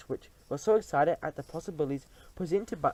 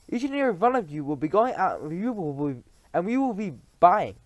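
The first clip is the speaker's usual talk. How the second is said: witch voice; 4 semitones higher, 6 dB louder than usual. Acted. Grand High Witch speech.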